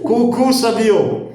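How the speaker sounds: high, slow, sing-song "Cucu" with a laugh; playful cuckoo greeting. Shown as a demonstration. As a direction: greet her like a cuckoo clock, high and teasing. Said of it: "tem também agora cucu".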